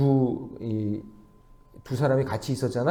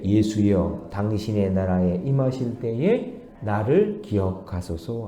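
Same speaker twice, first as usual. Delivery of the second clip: slow, lower, measured petition; pretty, reverent plea; 4 semitones lower, slower than usual. Retold or imitated. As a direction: recite it reverently, without hurry. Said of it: "얼마나 예뻐요".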